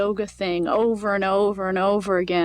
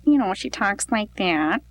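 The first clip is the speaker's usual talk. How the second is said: put-on Minnesota accent. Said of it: "She's from Minnesota".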